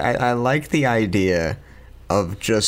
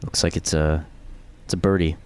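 mock golf announcer, low-key and measured; lightly parodied tournament commentary with long pauses; hushed golf commentary; 4 semitones lower than usual. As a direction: play a restrained TV golf commentator.

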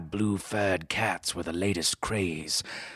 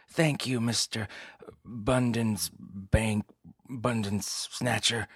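flustered dame; 4 semitones higher, slower than usual. Acted. Client fumbling name.

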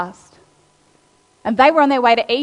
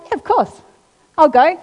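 much higher, bright eager yes; eager young Joseph; 5 semitones higher, 6 dB louder than usual. Retold or imitated. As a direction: play the keen boy happily agreeing. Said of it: "he's like".

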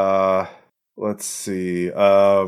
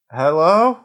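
phone greeting; 7 semitones higher, 4 dB louder than usual. Acted. GM voices Skeezy Jeff answering phone.

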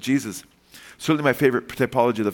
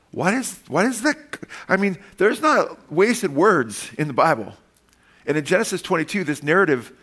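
emphatic preaching; 7 semitones higher than usual. Real, not acted. Preacher stressing wasted words.

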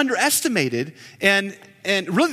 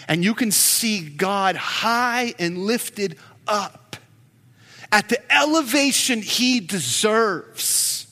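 preaching; 2 semitones higher than usual. Real, not acted. Pastor preaching to the congregation about God's elevation, building fervour. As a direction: lift the congregation up to God's majesty.

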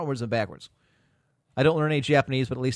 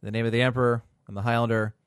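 mock blessing; 2 semitones lower than usual. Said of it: "I will deign to give you my blessings".

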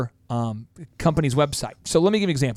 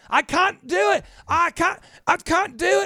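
much higher, strained cry of a panicking engineer; panicky Scotty; 14 semitones higher than usual. Retold or imitated. Scotty protesting to the captain, high frantic voice. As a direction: whine it like he's straining to lift something heavy. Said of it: "it's always like he's arguing".

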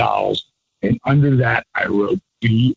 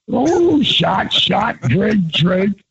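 whoop; 6 semitones higher, much slower than usual. Retold or imitated. Drunken toast chant.

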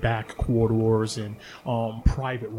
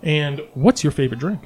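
bubbly barmaid; 2 semitones higher, slower than usual. Acted. DM voices Bonnie the barmaid.

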